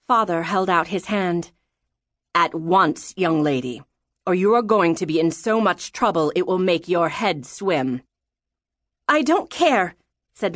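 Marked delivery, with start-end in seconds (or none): 2.3-8.0 lightly voiced threatening father; stern father. Father threatening disobedient daughter with trouble, mildly stern. 9.1-10.0 put-on high-pitched stubborn girl; mad, defiant child. A narrator's reading. Daughter defying father's threat, mad. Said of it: "She was madder than she'd ever been".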